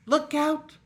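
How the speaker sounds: high, loud squawk of alarm; startled mother duck squawking. Acted. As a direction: shriek a warning like a startled duck. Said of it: "squawked Missus Mallard, all of a dither".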